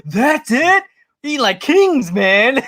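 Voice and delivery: put-on high, loud laughing Boston accent. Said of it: "in that Boston accent tone".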